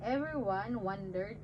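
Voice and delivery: put-on simple Bible story read to a baby; reading to children. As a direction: tell it gently like a bedtime story. Reads Jonah story to baby.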